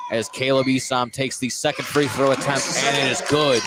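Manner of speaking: live basketball play-by-play, energetic; play-by-play call. Acted. Commentator calling a double overtime free throw.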